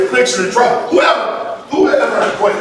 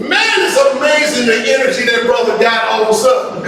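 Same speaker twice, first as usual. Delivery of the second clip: mock amazement; 3 semitones higher than usual. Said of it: "all of a sudden they'll go".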